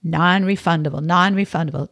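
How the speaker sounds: "Non-refundable" said twice, each word firmly stressed; in capital letters. A narrator's reading. Storyteller repeats the dreaded fine print, "Non-refundable" stressed like capitals. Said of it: "two words that deserved capital letters".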